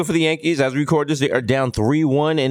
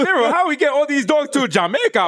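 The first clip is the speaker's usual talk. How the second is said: raised, alarmed character voice; high panicked voice; 10 semitones higher than usual. Pretend. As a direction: play a panicked sled-dog owner. Acting as Cuba Gooding with dogs.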